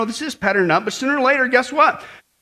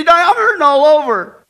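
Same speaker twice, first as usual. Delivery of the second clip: louder mock whine of pain; mock complaint; 5 semitones higher, 7 dB louder than usual. Joke lady pleading with her doctor, in a mock whine of pain. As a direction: plead with the doctor that everything hurts. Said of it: "and see".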